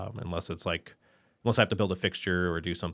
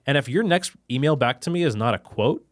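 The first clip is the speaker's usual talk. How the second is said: exasperated rant; 6 semitones higher, 5 dB louder than usual. Real, not acted. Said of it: "ranting about vendors".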